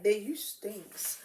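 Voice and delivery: slow, stretched-out mock complaint; imitating partner's complaint. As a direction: draw it out, imitating him. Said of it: "He was like".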